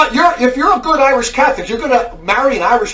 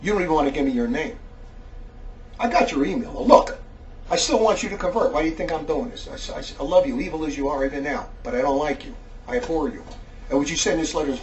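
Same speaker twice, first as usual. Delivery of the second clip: much softer, lower-pitched menace; low warning; 8 semitones lower, 8 dB quieter than usual. Real, not acted. Preacher warning an anonymous letter writer, low and quiet. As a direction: drop low and quiet to warn them.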